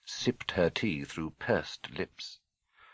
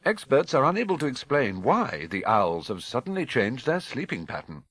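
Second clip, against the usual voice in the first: crisp TV newsreader delivery; news read; 2 semitones higher, 3 dB louder than usual. Acted. Newsreader reads the report.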